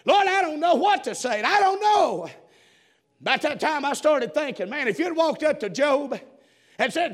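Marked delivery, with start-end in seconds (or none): 0.1-2.3 raised-pitch plea to the Lord; retold plea, rising higher at the end; pleading prayer. Preacher praying over what to say at funeral, pleading.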